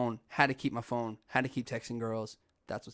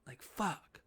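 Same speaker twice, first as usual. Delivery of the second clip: exasperated cussing; 6 semitones higher, slower than usual. Retold or imitated. Older brother cussing at Hank after rescuing him, exasperated. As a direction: curse at him in mild mock frustration. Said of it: "heard me cuss like that".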